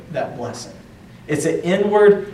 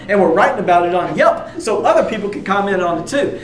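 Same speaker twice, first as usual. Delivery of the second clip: gushing guest; 3 semitones higher than usual. Acted. Guests raving about extravagant provision.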